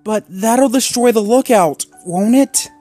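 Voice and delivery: whining. A narrator's reading. Rocky protests destroying the lookout, whining. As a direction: whine it like a worried pup. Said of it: "Rocky whined".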